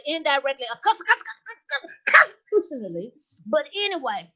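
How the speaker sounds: sassy gossiping lady voice, lightly voiced; Miss Jazzy character voice. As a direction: play a brassy gossip. Comedian plays Miss Jazzy character.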